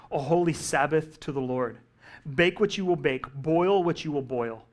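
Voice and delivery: solemn scripture reading. Acted. Preacher reading Moses' words to the congregation, solemn. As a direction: proclaim each line with pauses.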